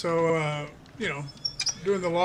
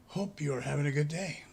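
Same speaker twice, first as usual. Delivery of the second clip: breathless, winded words; out of breath; 4 semitones lower, 4 dB quieter than usual. Real, not acted. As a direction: speak while catching your breath. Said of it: "A little out of breath".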